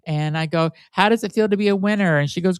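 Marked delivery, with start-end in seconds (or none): 0.9-2.2 higher, perky fake radio host voice; a mock DJ gushing at a prize winner; Barbara Midnight DJ voice. Prank caller as fake DJ to friend Shelley, higher perky mock DJ voice. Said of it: "my name was Barbara Midnight".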